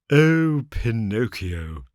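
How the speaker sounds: slow, drawn-out tearful cry; tearful beggar's appeal. A narrator's reading. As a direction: wail it loudly, then sink, drawn out. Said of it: "he cried in a tearful voice".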